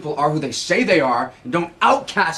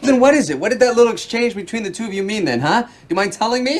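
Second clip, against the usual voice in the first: raised, heated interrogation; angry demand; 5 semitones higher, 3 dB louder than usual. Acted. Husband demanding partner explain the shared look, angry. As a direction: press hard for an answer, affronted.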